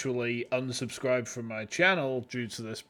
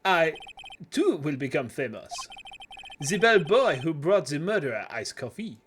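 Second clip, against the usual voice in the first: a hint of a French hotel clerk's accent. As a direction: welcome him with light French flair. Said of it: "he's supposed to be French".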